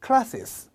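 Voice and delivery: "Classes" with the S sounded again as class-es; a teacher stresses the doubled S in "Classes"; double S. Shown as a demonstration. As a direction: let "Classes" end in a clear extra syllable, -ses. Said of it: "classes라고 해줘야 된다".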